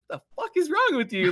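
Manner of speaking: high, loud mock scolding; exaggerated mom outburst. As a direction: blow up like a hammed-up shocked mom. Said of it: "she didn't say it like that".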